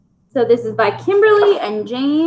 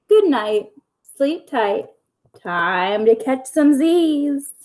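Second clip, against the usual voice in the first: lively bedtime story reading; reading to children. A narrator's reading. Teacher reading a bedtime story to her pupils, lively storytelling. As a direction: read it like a picture book for little kids. Reads picture book aloud to kids.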